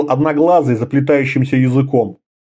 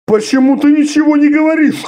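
high, loud exasperated shout; 12 semitones higher, 3 dB louder than usual. A narrator's reading. Orda shouting at silent Conan, exasperated. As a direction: demand an answer.

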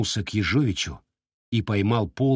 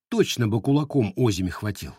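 usual speaking voice

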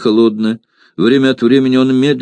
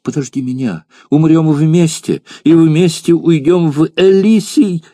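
whispered plea; 8 semitones higher than usual. Acted. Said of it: "и прошептала".

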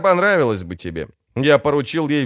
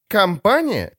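high outburst of indignation; exploding; 8 semitones higher, slower than usual. A narrator's reading. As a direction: burst out, pitch jumping up. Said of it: "взорвалась шеф". (взрыв возмущения)

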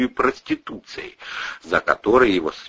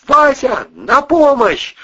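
crying for help; 6 dB louder, slower than usual. A narrator's reading. Зовёт на помощь.

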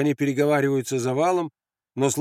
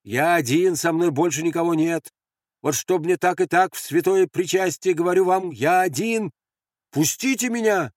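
raised, high-pitched plea; calling out to sentries; 6 semitones higher than usual. Acted. Andres pleading with the sentries above, calling out. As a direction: call up urgently to be let through.

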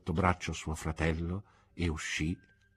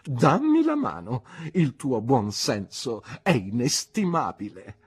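triumphant; 3 semitones higher, 5 dB louder than usual. Acted. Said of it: "esclamò trionfante mia zia".

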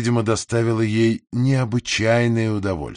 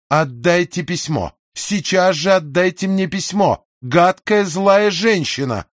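mild mock shout; 5 semitones higher than usual. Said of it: "закричала мисс Мосс".

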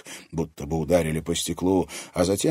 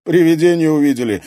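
chuckling; 10 semitones higher, 13 dB louder, faster than usual. A narrator's reading. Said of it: "хохотнул Артём".

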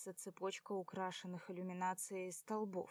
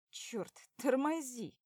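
louder, higher, slow cry to brake; urgent yell; 5 semitones higher, 6 dB louder than usual. A narrator's reading. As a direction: yell at the driver. Driver yells to brake.

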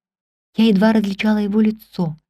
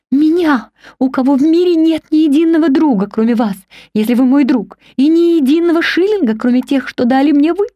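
higher, louder, incredulous outcry; exclaiming; 6 semitones higher, 4 dB louder than usual. A narrator's reading. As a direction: cry out in disbelief. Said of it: "вскричала я".

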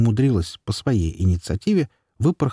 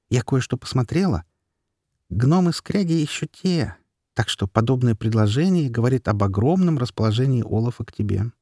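pixie; 2 semitones higher than usual. Acted. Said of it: "голос феи".

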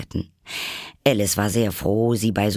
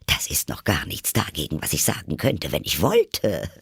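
self-satisfied; 3 semitones lower than usual. Acted. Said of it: "in selbstzufriedenem Ton".

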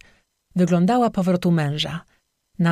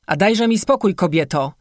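gruff shout; 2 semitones higher than usual. Acted. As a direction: snap at her to leave him alone. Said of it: "huknął".

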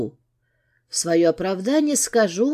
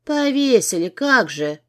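scoffing, disbelieving retort; sarcastic. Acted. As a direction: throw his word back mockingly. She mocks his excuse.

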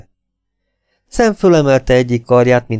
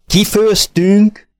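shouted; 8 semitones higher, much slower than usual. A narrator's reading. Sam yelling back at her in disbelief. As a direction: yell the word out slowly and high. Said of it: "üvöltötte Sam".

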